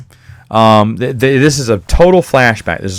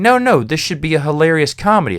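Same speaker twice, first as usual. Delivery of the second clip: mock indignant reader; 5 semitones higher than usual. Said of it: "And you're like".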